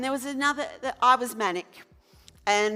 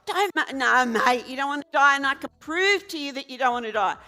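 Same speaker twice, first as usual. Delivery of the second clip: insistent arguing; 3 semitones higher, 5 dB louder than usual. Retold or imitated. Arguing with suicidal man.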